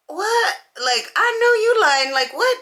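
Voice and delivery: high, incredulous what; can't believe what she's hearing; shocked disbelief. Retold or imitated. Disbelief at friends' claim.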